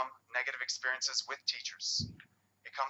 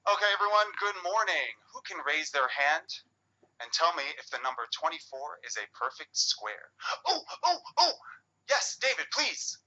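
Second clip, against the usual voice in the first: cheery teacher; 2 semitones higher than usual. Shown as a demonstration. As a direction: greet the class like an upbeat teacher. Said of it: "allow me to demonstrate".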